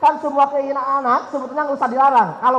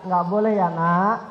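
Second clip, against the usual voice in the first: father refusing; 6 semitones lower, 5 dB quieter than usual. Retold or imitated. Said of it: "Lalu ayahnya bilang".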